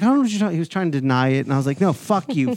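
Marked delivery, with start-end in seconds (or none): 0.0-0.5 higher, feigned innocence; a hammed-up innocent friend; mock innocent denial. Lee denying it, mock innocent. 1.8-2.5 playful mock aggression. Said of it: "getting a little aggressive with him".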